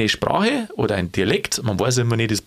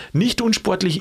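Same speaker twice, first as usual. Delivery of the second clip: long falling stress on "Nicht" in "Nicht unsportlich"; 7 semitones higher than usual. Shown as a demonstration. Demonstrating special emphasis on "Nicht" for his podcast partner. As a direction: land heavily on "Nicht". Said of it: "ist dann eine besondere Betonung".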